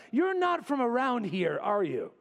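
high-pitched start, dropping on the tag question; pointedly single out a stranger; mock suspicion of an outsider; suspicious questioning. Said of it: "you're like".

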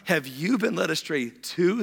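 slow, drawn-out mocking question. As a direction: taunt them, lifting the last word. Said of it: "They mocked".

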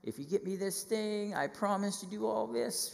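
put-on high, pleading child begging mom and dad; kid bargaining with parents. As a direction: wheedle like a kid making a deal. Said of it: "You're like".

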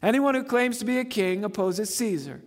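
loud high crowd yell; crowd shouting. Retold or imitated. Preacher shouting the leaders' demand at Pilate. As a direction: shout it like the angry mob. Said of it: "the Jewish leaders kept shouting".

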